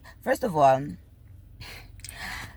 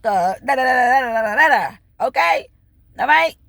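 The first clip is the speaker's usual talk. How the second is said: imagined call to wife; 3 semitones higher than usual. Pretend. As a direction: tell her straight and hard.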